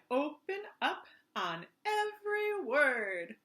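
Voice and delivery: slow, syllable by syllable; slow demonstration read. Shown as a demonstration. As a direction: spell each word out for the jaw. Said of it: "I'll show you from the side".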